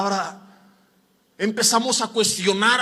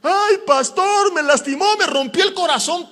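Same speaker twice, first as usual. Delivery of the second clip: whining complaint; 8 semitones higher, 5 dB louder than usual. Retold or imitated. Heartbroken member whining to the pastor, mock whine. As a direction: whimper it like a hurt churchgoer, hammed up. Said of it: "Y luego andan ahí chillando".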